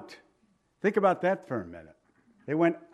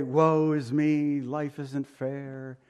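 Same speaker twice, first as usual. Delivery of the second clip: mock self-pity; much slower than usual. Believer lamenting his lot, slow mock self-pity. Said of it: "Maybe too often we say".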